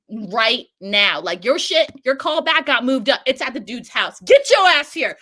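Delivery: urgent, rising to a loud demand; yelling caller. Retold or imitated. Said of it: "She's like".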